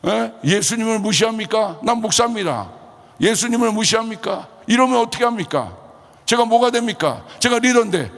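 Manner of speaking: high, indignant confrontation; retold angry outburst. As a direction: challenge them as an offended pastor, re-enacted. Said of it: "갑자기 제가 급발진을 한 겁니다". (화내며 높은 목소리로 따지는 재연)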